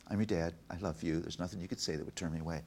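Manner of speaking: gentle, softening fatherly reassurance; tender retold comfort; reassuring dad. Dad reassuring his daughter again.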